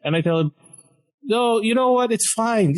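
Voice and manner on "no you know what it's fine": high-pitched flustered reassurance, acted out; retold anxious backing down; flustered placating. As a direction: hastily wave off an angry doctor. Placating the yelling doctor, retold.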